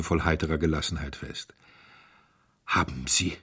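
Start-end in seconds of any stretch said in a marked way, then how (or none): 2.7-3.4 „Haben Sie“ breaks off on a rising „Sie“; a halting first try at „Haben Sie“; stammering start. Acted. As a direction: start the question and stall on „Sie“. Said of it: "stotterte Mister Audley mit starrem Blick".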